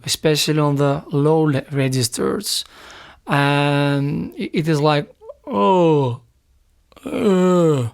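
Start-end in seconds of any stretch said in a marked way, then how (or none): 5.5-7.9 muffled tone, like an apple in the mouth; eating apple tone. Shown as a demonstration. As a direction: sing it muffled, as if chewing an apple. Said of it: "is the eating apple tone".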